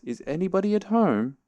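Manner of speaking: high, insistent repeated call; very loud call. A narrator's reading. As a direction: call it out high, drawing out "home". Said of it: "called out Pooh very loudly".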